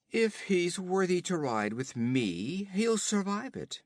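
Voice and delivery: höher und lauter, prahlerisch spöttisch; höhnischer Räuberhauptmann. Acted. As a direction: ein Wüstenräuber verhöhnt den Gefangenen. Olgerd spricht.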